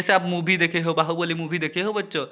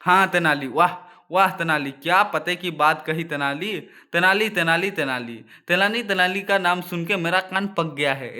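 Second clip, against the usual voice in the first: imitating the king. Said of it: "राजा की नकल करते हुए एक दरबारी".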